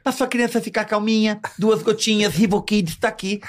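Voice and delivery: high voice with a lisp on every s; mock ad read with a lisp. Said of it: "imitando ela com essa língua presa".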